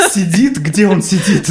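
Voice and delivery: high incredulous echo, half laughing; amazed question, still giggling. Real, not acted. Host echoes the story in high disbelief.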